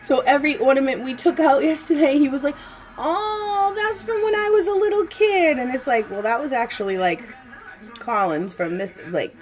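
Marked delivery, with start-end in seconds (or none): 3.0-5.6 put-on a lightly raised, eager little-boy voice; imitating excited son. Mom retelling her son's ornament chatter, a light excited kid voice. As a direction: mimic him gushing over each ornament.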